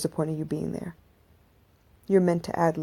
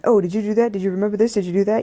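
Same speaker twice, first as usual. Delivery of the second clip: louder, pushy voice of her own racing mind; nagging inner voice; 2 semitones higher, 5 dB louder, faster than usual. Retold or imitated. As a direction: play the mind butting in with reminders. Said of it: "your mind kicks in".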